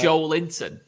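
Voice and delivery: slow Joelinton with JOEL as one syllable; two-part Joelinton. Shown as a demonstration. Co-host objects to the name, Joelinton as JOLE-in-ton. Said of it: "I don't say Joelinton".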